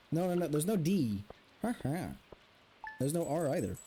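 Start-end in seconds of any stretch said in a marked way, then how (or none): 1.6-2.1 two-part villager grunt; Minecraft villager. Shown as a demonstration. Trying out how the villager sound is spelled, villager grunt. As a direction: grunt twice like a game villager. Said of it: "The villager sound?".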